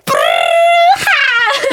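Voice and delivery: プルーハー with a trilled r, the ハー pitched high; rolled r. Shown as a demonstration. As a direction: roll the r in プルーハー and let ハー soar. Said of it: "ちょっと今やりたい". (巻き舌で高くプルーハー)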